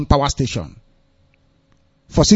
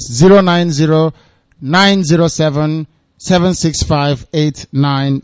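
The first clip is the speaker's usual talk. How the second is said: slow repeat of a number, grouped digits; dictating slowly; 2 semitones lower, slower than usual. Real, not acted. Host repeating the number to call, dictating slowly. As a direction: space the digits out for note-takers.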